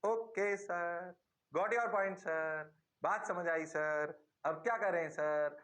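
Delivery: slow pupil recitation; lightly voiced student. Teacher mimics students saying they understood, slow and lightly voiced. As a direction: drag it like a class answering together.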